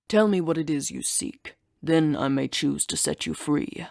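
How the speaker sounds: lightly voiced ancient beast; a hint of an old guarding creature, measured; monster guardian.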